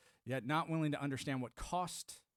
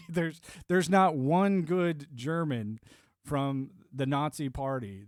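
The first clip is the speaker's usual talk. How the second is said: loud emphatic insistence; 8 dB louder, much slower than usual. Real, not acted. Insisting no good Nazi existed.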